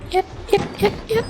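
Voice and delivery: repeated squeaky creak in a soft voice, like a rusty swing; softly imitating a creaking swing. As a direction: mimic a swing's creak with your voice. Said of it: "เสียงเหมือนแบบ".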